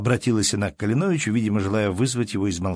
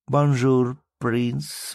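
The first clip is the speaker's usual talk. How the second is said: lively exclamation; 3 semitones higher, much slower than usual. Acted. Baroness bursts in greeting the prince, exclaiming. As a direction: call out Бонжур gaily to the prince. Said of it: "воскликнула она князю".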